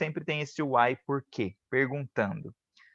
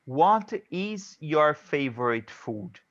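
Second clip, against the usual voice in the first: slow, careful English example; slow model sentence; slower than usual. Shown as a demonstration. Teacher to her students, reading a question slowly. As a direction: read it slowly as a model for the class. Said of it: "Eu não tô falando what your".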